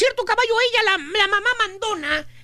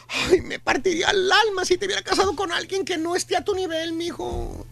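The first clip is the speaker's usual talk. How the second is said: guilt-tripping mother. Retold or imitated. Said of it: "viene el chantaje".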